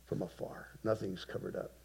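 low, hushed, fading to a whisper; hushed voice of God. Retold or imitated. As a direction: speak it softly, almost whispered. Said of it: "And God says".

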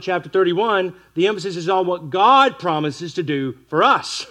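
ordinary talk, nothing marked

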